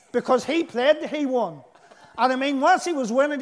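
chuckling through the words; amused, laughing at the memory. Real, not acted. Laughs telling funny childhood story.

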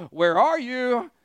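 slow, loud call of where are you; God calling Adam, slow and loud. Retold or imitated. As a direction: call out slowly across the garden.

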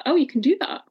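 amazed that it's even allowed; surprised. Retold or imitated. Told she can switch practices, asks back, surprised. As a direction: pitch jumps up in disbelief. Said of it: "And I was like".

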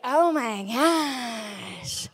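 slow, hushed gasp of wonder; awed geek. Retold or imitated. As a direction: breathe it out in awe. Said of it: "every geek ... was like".

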